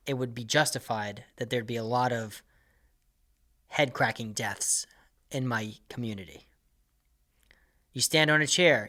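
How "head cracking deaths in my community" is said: whisper. Acted. Comic dark aside.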